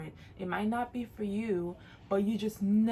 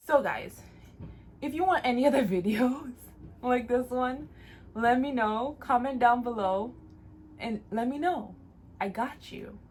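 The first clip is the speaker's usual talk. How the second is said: higher and louder, upbeat sign-off; excited outro; 5 semitones higher, 6 dB louder than usual. Real, not acted. Vlogger hyping her viewers to comment, excited and loud. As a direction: pump up the viewers at the end.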